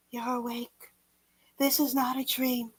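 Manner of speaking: hushed reassuring whisper. A narrator's reading. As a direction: softly whisper it to herself. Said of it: "She whispered".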